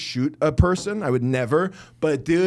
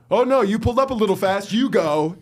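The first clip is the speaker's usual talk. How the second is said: mocking smug driver; 5 semitones higher, 4 dB louder than usual. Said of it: "the attitude of being like".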